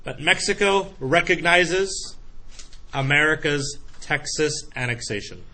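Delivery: slow careful repeat. Shown as a demonstration. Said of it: "A lot of X's in that sentence".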